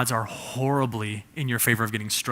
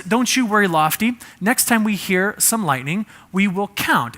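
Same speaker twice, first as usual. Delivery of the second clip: higher, louder cheerful cartoon builder; reassuring Bob; 6 semitones higher, 4 dB louder than usual. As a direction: reassure a scared crane, bright and upbeat. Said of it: "So Bob says".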